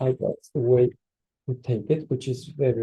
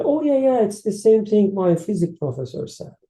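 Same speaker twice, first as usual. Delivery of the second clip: much higher, louder, an eager "aha, I knew this"; imitating a keen believer, pitched up high; mock eager recognition; 8 semitones higher, 4 dB louder than usual. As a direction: play the student who hears his professor in the verse. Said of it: "we read an ayah and say that".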